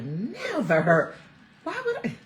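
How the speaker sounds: a firm, final no from mom; mom's firm never. Retold or imitated. Daughter voicing mom's answer, a firm drawn-out "Never". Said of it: "She's like".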